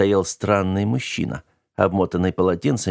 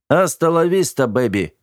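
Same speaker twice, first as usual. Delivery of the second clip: much higher, louder catchphrase yell; victory shout; 7 semitones higher, 4 dB louder than usual. A narrator's reading. Wounded robot shouting from the floor, loud triumphant yell. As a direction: fling the line out in triumph. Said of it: "крикнул с пола".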